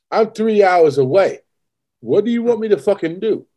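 high-pitched exasperated protest; mildly worked-up, incredulous retort; retold exasperation. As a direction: plead helplessly down the phone at an unreasonable demand. Retells exasperated phone reply to wife.

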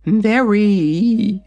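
high, hungry dragon snap; snapping dragon. A narrator's reading. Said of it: "snapping its jaws".

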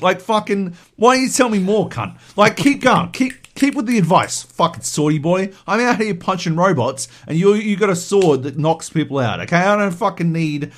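mock-angry, forceful telling-off; heated, emphatic acted tirade; irritated rant. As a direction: sarcastically tear into the advice-giver. Imagined resentful rant at Cloud.

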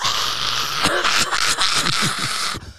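long breathy crowd-roar noise; imitated crowd reaction. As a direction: imitate a whole room erupting, voiceless. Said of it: "everyone's like".

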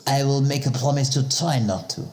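put-on French accent. Same French-accented character.

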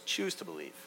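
soft, simple answer, voiced as the professor; quiet professor. Professor answering the student's plea, softly acted. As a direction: give the advice gently, dropping the volume. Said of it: "the professor goes".

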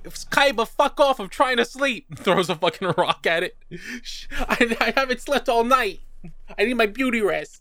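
high, whiny half-asleep Joey; whiny Joey impression. Joey woken by Kaiba, high whiny voice. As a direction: complain like you were woken up. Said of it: "he's like".

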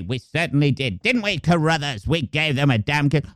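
lightly voiced pompous general; posh general. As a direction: general answering his sidekick. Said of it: "the posh general".

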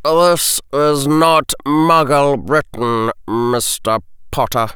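slow, cutting reprimand; stern teacher snapping at a pupil. A narrator's reading. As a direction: put the boy in his place. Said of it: "The potions master raised his voice".

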